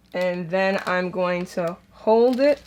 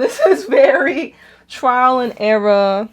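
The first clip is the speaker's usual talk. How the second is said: laughing; 4 semitones higher, 9 dB louder than usual. Real, not acted. Laughing at her own fumbling.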